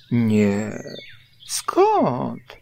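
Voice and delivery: acted casual storybook bear; nonchalant. A narrator's reading. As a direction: brush it off with exaggerated innocence. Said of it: "odparł Puchatek niedbale".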